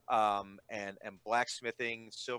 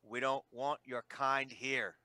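menacing thug; slower than usual. Acted. Thug threatening the giantling.

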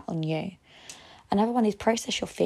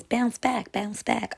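lightly mimicked TV show catchphrase, lifted at first; imitated TV catchphrase; 4 semitones higher, much slower than usual. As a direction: parrot a repeated catchphrase from a cooking show. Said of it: "all they keep saying is".

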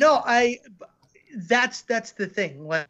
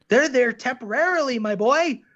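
a touch of a fatherly lecture, a bit higher and louder; father's way of talking; 4 semitones higher, 3 dB louder than usual. Retold or imitated. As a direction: lightly play the dad setting his son straight. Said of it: "that's how he talks".

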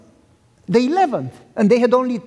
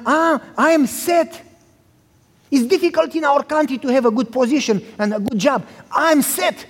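eager son; 3 semitones higher than usual. Retold or imitated. Son listing the benefits.

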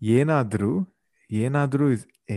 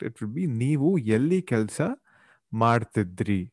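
polite, softer phrasing; respectful; 4 dB quieter than usual. Shown as a demonstration. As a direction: ask it politely and softly. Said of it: "But with respect".

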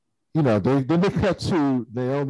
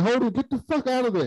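mock urgent warning; 11 semitones higher than usual. Naomi yelling at Holden.

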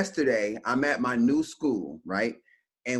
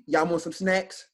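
mock-timid, cowed offer; lightly sheepish retold question; meek punk; 3 semitones higher than usual. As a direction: play the coward offering a peace gesture. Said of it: "The punk in me".

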